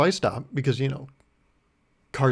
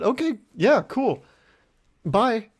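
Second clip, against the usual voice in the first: much higher, quick chirpy brush-off; breezy woman; 9 semitones higher, 3 dB louder, slower than usual. Retold or imitated. The driver brushing him off, chirpy and high. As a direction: toss it off and leave fast.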